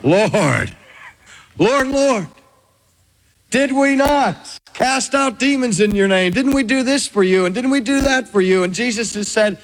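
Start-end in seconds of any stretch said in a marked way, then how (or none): 0.0-2.3 rising, anguished plea of the rejected; desperate believers crying out to Jesus; pleading cry. Shown as a demonstration. 3.5-8.6 higher, hurried protest, the last line fast; pleading protest. Acted. Believers pleading with Jesus.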